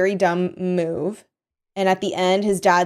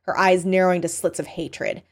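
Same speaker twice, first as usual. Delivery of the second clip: usual speaking voice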